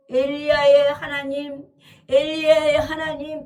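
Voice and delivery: loud, insistent invocation; calling on God. Acted. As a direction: call out forcefully while striking the water. 물을 치며 부르짖는 엘리사. (힘주어 크게 부르짖듯)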